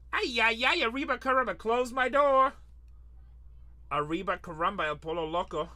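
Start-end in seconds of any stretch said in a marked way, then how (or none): 0.1-2.5 hammed-up high, loud wail of mock dismay; playful high, loud lament. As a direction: wail it like a cartoon exclamation. Mock exclamation at the low price.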